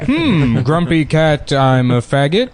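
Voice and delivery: George Takei. Acted. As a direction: ham up a celebrity, dragging the last words. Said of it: "not a particularly good George Takei".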